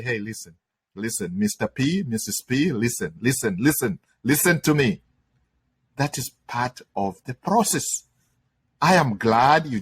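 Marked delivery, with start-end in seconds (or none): 0.0-8.0 calming reply. Retold or imitated. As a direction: settle the panicking student down gently. Calm reply to panicking student.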